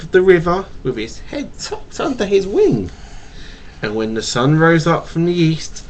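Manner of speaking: storybook read-aloud to a little one; reading to a child. Acted. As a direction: read it gently like a bedtime tale.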